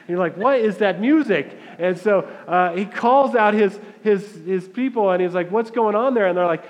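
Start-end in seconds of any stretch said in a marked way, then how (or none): 0.4-1.6 higher and louder, amazed at the noise; amazed question. Retold or imitated. Hears loud party from road. 5.5-6.3 higher and louder, demanding to know; calling out a question. Retold or imitated. Older brother asks servants.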